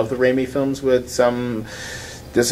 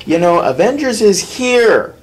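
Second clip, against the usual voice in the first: lightly voiced worried director; a touch of a nervous director; 4 semitones higher, 4 dB louder than usual. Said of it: "are going to have to sit there and go".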